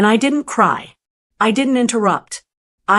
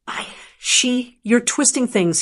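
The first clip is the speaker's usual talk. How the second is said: stammering; 2 semitones higher than usual. Acted. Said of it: "he stammered".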